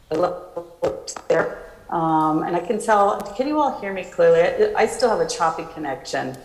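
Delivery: choppy, breaking-up connection audio; buffering stutter. Real, not acted. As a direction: voice cutting in and out over a bad line. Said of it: "You're breaking up a little".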